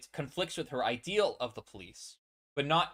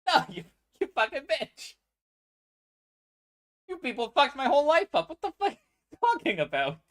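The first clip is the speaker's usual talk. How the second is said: much higher, loud cursing rage; furious outburst; 13 semitones higher, 7 dB louder than usual. Acted. Echo screaming furiously at Caitlyn. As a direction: explode at the person who ruined his life.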